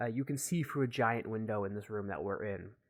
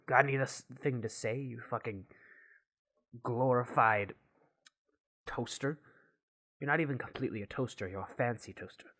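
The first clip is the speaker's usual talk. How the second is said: mildly exasperated insult, broken by pauses; irritated scientist. Acted. Gavin insults his toaster friend, mild irritation. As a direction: spit out the insult piece by piece, then hurry on.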